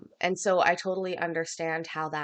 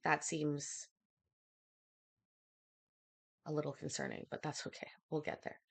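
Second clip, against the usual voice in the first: out of breath; 2 semitones lower, 10 dB quieter than usual. Real, not acted. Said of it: "I feel weird being out of breath talking".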